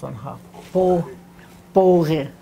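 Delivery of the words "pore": pore said louder with the right stress; pore, the proper stressed reading; correct stress. Shown as a demonstration. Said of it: "makes a big difference".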